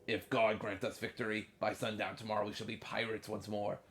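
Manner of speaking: lightly gruff pirate captain voice; gruff old fisherman. Acted. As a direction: read it as a rough old sea dog. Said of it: "I'll read in my pirate voice".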